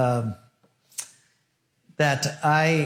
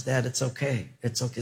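gentle reassurance; 6 dB quieter than usual. Pretend. Daughter comforts father.

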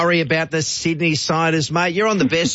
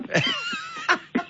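high squealing laugh; 7 dB quieter than usual. Real, not acted. Host laughing at the famous line.

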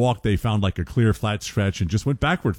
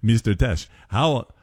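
put-on Swedish accent; slower than usual. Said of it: "it's a terrible Swedish accent".

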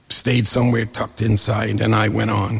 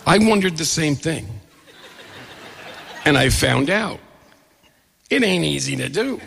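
laughing; 3 semitones higher than usual. Real, not acted. Laughing at his own golf story.

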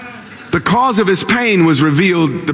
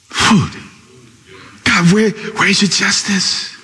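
leaning in; 4 semitones lower than usual. Acted. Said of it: "he really leans in".

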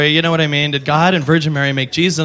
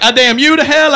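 booming curse; 10 semitones higher, 5 dB louder than usual. Retold or imitated. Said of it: "he's like".

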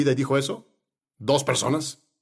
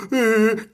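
high mock whimper; mock crying; 4 semitones higher than usual. Imitating the crying people before Moses, mock wail. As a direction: imitate a wailing cry briefly.

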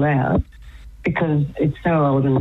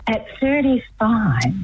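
whispered aside; 6 semitones higher, slower than usual. Real, not acted. Aside with unvoiced breathy tone.

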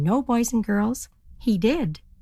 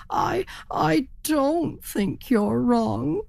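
high, slow, faltering doubt; hesitant turkey; 6 semitones higher, much slower than usual. Acted. Worried turkey hesitantly doubts the spruce hen, high and slow. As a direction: stammer it, less sure now.

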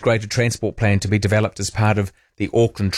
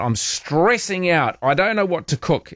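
mock stressed; 6 semitones higher than usual. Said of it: "someone in the house is stressing out".

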